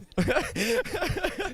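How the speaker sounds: short high embarrassed laugh; real sheepish chuckle; bashful laugh. Real, not acted. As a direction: laugh off the praise. Driver laughs off compliment.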